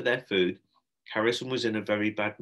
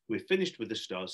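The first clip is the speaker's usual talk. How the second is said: firm. Acted. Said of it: "said Shelley firmly".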